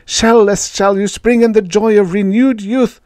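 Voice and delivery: very high, loud creature voice; high-pitched alien promising wonders; coaxing alien. A narrator's reading. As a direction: coax in a piercingly high alien voice. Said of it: "Yith whispered".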